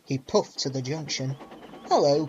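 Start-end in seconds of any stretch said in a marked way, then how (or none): 1.9-2.3 a loud hail across the platform; calling out. Acted. Thomas calls out to Gordon, loud and cheeky. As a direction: call hello out loud. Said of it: "called Thomas".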